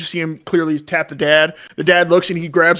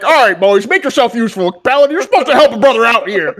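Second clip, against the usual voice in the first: louder, higher exasperated call; calling for help; 6 semitones higher, 7 dB louder than usual. Acted. Hunter struggling with yak calls to travelers, loud exasperated. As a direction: rope the strangers into helping.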